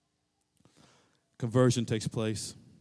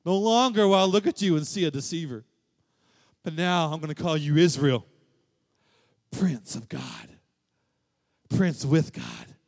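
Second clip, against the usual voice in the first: God's proclamation; 5 semitones higher, 7 dB louder than usual. Acted. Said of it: "And God says".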